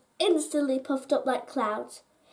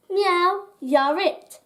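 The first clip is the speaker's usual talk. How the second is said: announcing; 5 semitones higher, 5 dB louder, much slower than usual. A narrator's reading. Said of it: "announced Whiskers".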